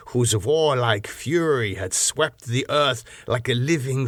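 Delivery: put-on proud old nobleman holding forth on his bloodline; the Count boasting. Count boasting of his race to his guest, proud. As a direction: let ancestral pride swell through each line.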